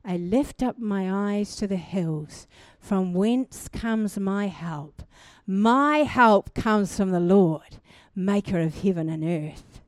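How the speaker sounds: unhurried devotional recital of a psalm. Acted. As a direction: savour each line of the verse like a prayer.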